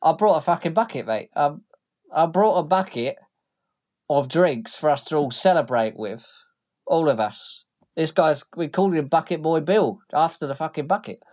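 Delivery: rough cockney thug voice; indignant thug. Acted. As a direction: insist on the bucket. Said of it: "He goes".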